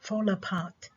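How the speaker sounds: whispered. Shown as a demonstration. Teacher whispers the example to herself. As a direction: fall apart whispered softly. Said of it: "السيلابل اللي ماخذ الستريس فيها هي الثاني".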